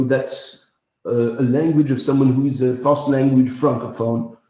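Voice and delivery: lightly demonstrated Brussels accent in English; English with a touch of Brussels French; Belgian French accent. Shown as a demonstration. Coaching viewers on Brussels mouth shape, Belgian French accent. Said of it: "the Brussels one, think of it more as a wedge".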